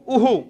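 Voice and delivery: उहु said as u with an echoing hu; teacher sounding out the visarga echo; visarga sound demo. Shown as a demonstration. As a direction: let the visarga in उहु copy the u vowel. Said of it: "ध्वनि किसकी आ रही है".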